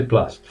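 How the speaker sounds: plus with a short uh vowel, plʌs; correct plus. Shown as a demonstration. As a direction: model plus with the vowel of cup. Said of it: "you say plus".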